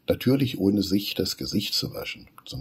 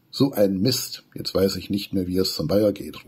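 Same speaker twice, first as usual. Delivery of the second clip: mild exclaiming; 4 dB louder than usual. Acted. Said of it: "ruft Wudi".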